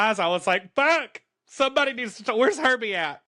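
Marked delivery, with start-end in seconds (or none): 0.7-1.2 high, loud curse; furious at the story, shouting; outraged shout. Real, not acted. 1.4-3.2 outraged. Real, not acted. Outraged at the story.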